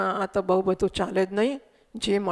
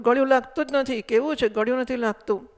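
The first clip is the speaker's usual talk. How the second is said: put-on quicker, slightly raised whine of a child who gets no sweetness; mock child's complaint; 2 semitones higher, faster than usual. Child licking chocolate toy, lightly mock complaining whine. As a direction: play the child grumbling that it isn't sweet, lightly. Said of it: "અને હું ફરિયાદ કરું".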